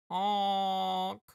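silly clown. Pretend. Voicing the clown character.

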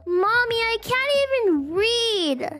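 put-on high, eager little boy. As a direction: play an excited young son. Son voiced.

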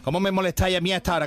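fast, irritated boss; annoyed. Acted. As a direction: snap at the interruption. Annoyed boss answers the radio.

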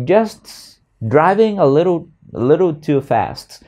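"Just" high and rising, then trailing off; hesitant just. Shown as a demonstration. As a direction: start high on "Just", thinking while speaking. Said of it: "giáo viên ngừng rất lâu". ("Just" lên cao, vừa nói vừa nghĩ)

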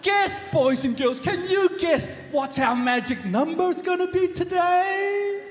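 chirpy sing-song host question; kids show host. Acted. Host quizzes the children.

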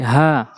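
"হা" as an easy open h from deep in the throat; normal throat ha. Shown as a demonstration. Teacher contrasts the two ha letters, easy open "হা". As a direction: let "হা" out normally, without friction. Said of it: "হলকের শুরু থেকে একদম normally".

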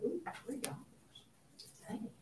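hushed, let-down ooh at the price tag; mock dismay at price. Teacher acting a shopper shocked by a three-dollar candy bar, hushed dismay. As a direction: play a shopper deflated by the cost.

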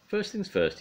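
high, bright character voice; Mister Clumsy voice. Acted. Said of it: "he said".

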